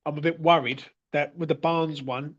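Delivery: talking right after a drink; after a sip. Real, not acted. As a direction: speak just after swallowing. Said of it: "as I take a drink".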